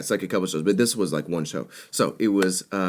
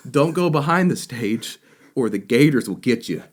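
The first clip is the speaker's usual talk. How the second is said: imitated warning; 3 semitones higher, 4 dB louder than usual. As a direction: play the stage manager warning the band. Stage manager's warning acted out.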